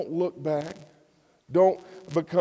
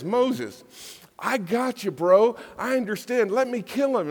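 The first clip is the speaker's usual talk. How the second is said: much higher, casual buddy voice; God as a buddy; 8 semitones higher, 5 dB louder than usual. Acted. God reassuring Moses like a friend, much higher and casual. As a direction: play God as an easygoing pal.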